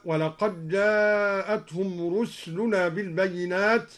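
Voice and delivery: "رسلنا" recited as ruslunaa, s without vowel; silent-vowel sin. Shown as a demonstration. Reciter demonstrating al-Duri's verse, sukun on the sin of "رسلنا". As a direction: close the first syllable of "رسلنا" on s. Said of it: "وأسكن السين من رسلنا هكذا".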